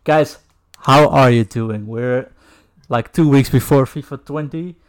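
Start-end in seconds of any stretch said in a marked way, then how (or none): none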